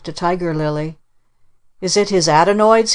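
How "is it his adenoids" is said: a raised, eager question; child's cry. Acted. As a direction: blurt it out, worried and eager. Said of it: "he cried".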